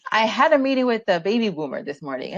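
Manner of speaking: high, bubbly excited retelling of a client's news; excited friend. Retold or imitated. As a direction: gush like an excited young coach.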